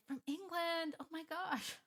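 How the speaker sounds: high, thrilled gush; gushing fan. Retold or imitated. Podcaster gushing over a listener abroad, high and thrilled. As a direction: squeal over a listener from England. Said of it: "I'm that person that's like".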